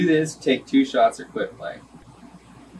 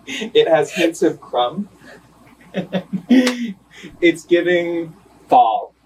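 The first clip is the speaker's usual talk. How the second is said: slow, savoring sommelier; wine connoisseur; 2 semitones higher, much slower than usual. Shown as a demonstration. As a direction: describe it like tasting fine wine. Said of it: "I have to describe it like a fine wine".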